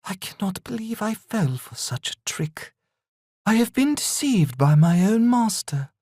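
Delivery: a betrayed demon accepting her end; defeated demon. Acted. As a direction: beaten demon mourning her fate, dying away. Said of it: "a tear formed in her eye".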